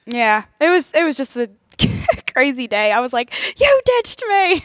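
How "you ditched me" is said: high, slow whiny quote; whiny mock complaint. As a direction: draw it out like a hurt kid. Retold complaint to friend.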